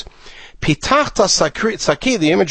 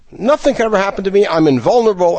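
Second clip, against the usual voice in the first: mock teenage bravado; 3 semitones higher, faster than usual. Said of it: "the mantra, as it were, of many teenagers".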